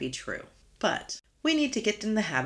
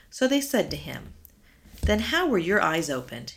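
scripture reading. Acted. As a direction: read the passage with voices for each figure. Reads scripture passage aloud.

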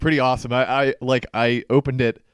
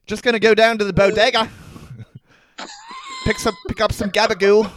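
mock New York accent; 10 semitones higher than usual. Co-host heading to the bodega for gabagool, mock New York accent. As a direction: ham up a New Yorker in a high voice. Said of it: "either a New York guy".

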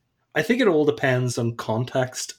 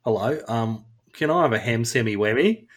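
put-on Australian accent; 3 semitones lower than usual. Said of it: "if somebody was Australian".

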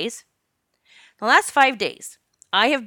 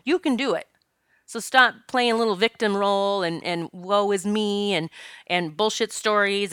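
stern self-talk in the mirror. Retold or imitated. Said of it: "I look in the mirror literally and say".

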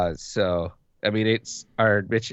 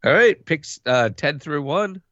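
much higher, louder hyped TV announcer; mock TV announcer; 8 semitones higher, 6 dB louder than usual. Cohost pretending to announce picks at intermission, mock announcer. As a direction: sell the draft picks like a broadcaster.

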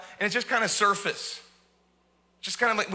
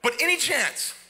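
timid thief's plea. Retold or imitated. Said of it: "he's got the little voice".

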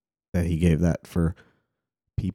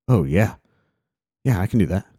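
lightly voiced eager kid, a bit louder; excited five-year-old; 2 semitones higher, 4 dB louder than usual. Five-year-old agreeing to make his own sandwich, mildly excited. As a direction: imitate a child keen to help. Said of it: "he gets so excited".

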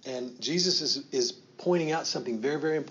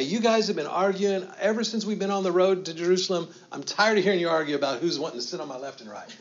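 mock scolding; 5 semitones higher, 3 dB louder, faster than usual. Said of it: "He doesn't scold them".

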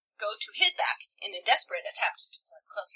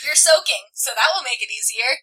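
hammed-up lover; 8 dB louder than usual. Voicing the boyfriend in fanfic.

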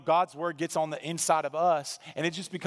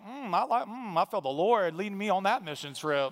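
mocking skeptic; 2 semitones higher than usual. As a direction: tease the knowing listeners in a sly voice. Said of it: "Some of you are like".

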